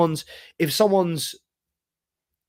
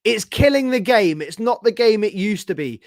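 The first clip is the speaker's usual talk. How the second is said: lightly imitating a complaint, raised pitch; mocking the manager's quote; 6 semitones higher than usual. Fan mimicking Postecoglou's post-match complaint in a mild mock voice. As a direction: parrot his words with scorn. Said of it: "first thing that came out of Ange Postecoglou's mouth".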